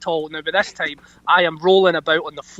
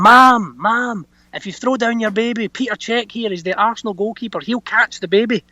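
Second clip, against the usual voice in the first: raised pitch, calling up to her; retold shout up; 5 semitones higher than usual. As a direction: imitate calling up to someone high above. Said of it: "So we shout up to the woman".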